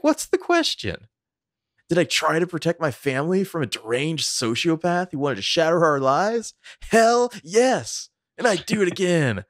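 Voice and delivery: high, hammed-up outraged father; furious self-defense. Mocking Peter's defense of his family, in a high hammed-up rage. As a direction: spit out each word as a righteous father. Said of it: "I love that line reading".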